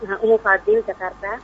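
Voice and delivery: faint caller voice on a weak phone line; very quiet and distant, as if over the phone; barely audible. Real, not acted. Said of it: "Suaranya terlalu kecil".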